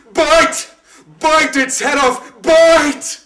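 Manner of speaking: high, full-throated shout; crying out. Acted. A voice cries to the choking shepherd, shouting. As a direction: hurl the command at the shepherd. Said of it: "a voice cried from me".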